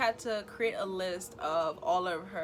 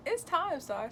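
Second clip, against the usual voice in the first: higher, firm announcement from the doctor; imitating the doctor; 9 semitones higher, slower than usual. Doctor telling Star a second time that it's time, higher and emphatic.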